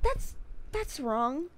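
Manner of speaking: slow, deadpan director verdict; mock director verdict. Director tells the actor his take is wrong, slowly. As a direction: drag it out like an unimpressed director. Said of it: "David Cage was like".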